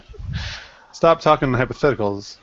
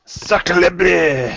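hammed-up French accent; cartoon Frenchman taunting; Monty Python Frenchman; 3 semitones higher than usual. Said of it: "the Frenchman from Monty Python".

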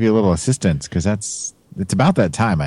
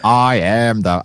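J F K; much slower than usual. Pretend. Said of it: "I sounded like a bad J F K impersonation".

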